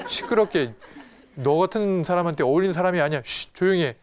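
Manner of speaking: scolding hush. Acted. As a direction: act out a crowd telling someone off. 군중이 소경을 나무라며 입막는 장면. (핀잔주며 입막듯이)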